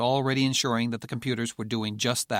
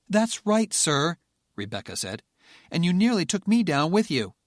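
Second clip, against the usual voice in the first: bitter reproach; 7 semitones higher, 5 dB louder than usual. Acted. Rebecca adds her complaint.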